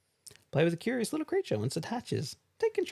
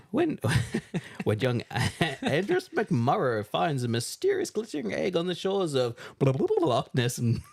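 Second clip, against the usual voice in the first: reading while giggling; laughing; 2 semitones higher than usual. Real, not acted. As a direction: try to read but keep cracking up. Reading box through laughter.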